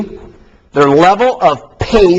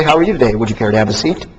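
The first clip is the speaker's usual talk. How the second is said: gentle indirect greeting; 5 semitones lower, 3 dB quieter, faster than usual. Shown as a demonstration. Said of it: "Indirect person would say".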